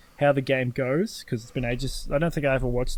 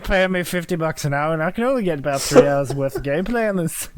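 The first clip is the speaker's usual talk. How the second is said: put-on Scottish accent; 2 semitones higher, 4 dB louder than usual. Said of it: "trying to do a Scottish accent".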